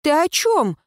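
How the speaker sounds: startled, rising questions; bewildered, voice climbing; surprised. Acted. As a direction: caught off guard by the ghost. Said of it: "удивлялась я".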